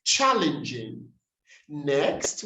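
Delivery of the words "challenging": challenging stressed on the first syllable; corrected stress. Shown as a demonstration. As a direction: model challenging as CHAL-in-jing. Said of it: "we say challenge".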